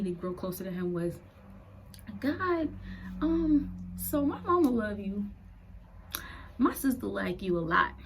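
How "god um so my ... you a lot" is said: put-on higher, louder, puzzled young girl's prayer; a frank, bewildered teen talking to God; teenage prayer. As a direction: ask God like a confused teenager. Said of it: "The first prayer I made to him".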